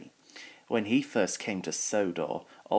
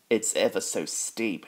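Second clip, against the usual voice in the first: panting. Acted. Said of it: "he panted".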